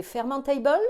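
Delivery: fermentable said lightly with an English accent; a playful touch of English accent on fermentable; mock English accent. Shown as a demonstration. Vlogger spelling out FODMAP, a light mock English accent. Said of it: "attention avec mon super accent anglais".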